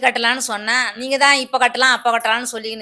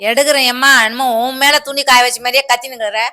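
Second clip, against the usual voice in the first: angry retort; 2 semitones higher, 6 dB louder than usual. Acted. Quarrel with neighbour over clothesline.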